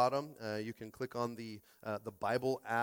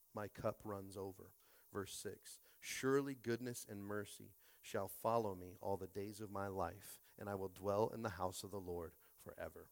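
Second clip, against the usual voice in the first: scripture reading; 4 dB quieter than usual. Acted. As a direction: read the psalm gently, letting each line settle. Reads Psalm 23 aloud.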